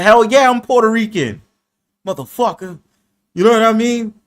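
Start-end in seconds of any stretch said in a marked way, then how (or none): 0.0-2.8 lightly voiced Puerto Rican accent, louder; mock Puerto Rican accent. Answering the angry troll, a mild mock Puerto Rican boast. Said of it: "I said".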